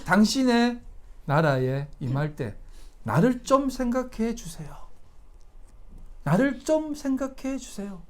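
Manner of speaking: softly voiced, acted plea for mercy; subdued begging, softly acted; humble plea. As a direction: plead quietly, as the repentant robber. Penitent robber pleading on the cross.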